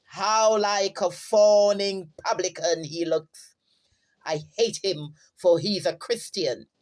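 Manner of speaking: a touch of theatrical declaiming; Shylock's aside. Acted. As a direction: recite it as a stage villain's aside, with mild force. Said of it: "And Shylock, in an aside, he says".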